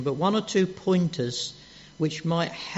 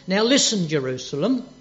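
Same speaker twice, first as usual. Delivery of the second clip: stern rebuke; 3 semitones higher, 5 dB louder than usual. Shown as a demonstration. Jesus scolding Jerusalem, loud and stern. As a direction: snap at the city like a scolding master. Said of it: "This wasn't".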